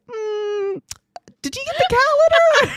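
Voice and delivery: high, laughing mock question; laughing imitation of coworker. Imitating coworker Ashley asking about litter, laughing. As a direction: squeak it out between laughs. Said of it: "And she's like".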